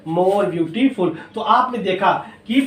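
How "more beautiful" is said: slow answer. Shown as a demonstration. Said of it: "क्या जोड़ देंगे?".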